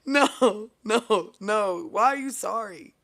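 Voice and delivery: high, loud burst of objection; loud protest. Real, not acted. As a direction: cut in loudly with amused disbelief. Loud protest after laughing.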